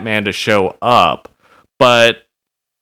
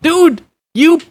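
exasperated call-out; 14 semitones higher, 3 dB louder than usual. Acted. Exasperated address to Batman.

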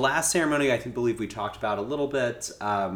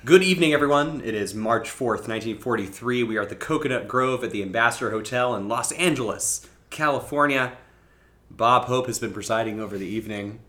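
Bob Hope host; 5 dB louder than usual. Acted. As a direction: welcome the room like an old-time emcee. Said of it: "the essence of Bob Hope in you".

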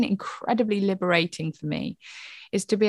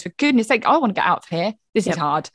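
exasperated outburst; 2 semitones higher, 6 dB louder than usual. Retold or imitated. Mother at the end of her rope, venting loudly. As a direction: let the frustration burst out. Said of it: "the other part of me that goes".

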